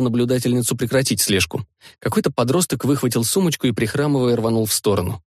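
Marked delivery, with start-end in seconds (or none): none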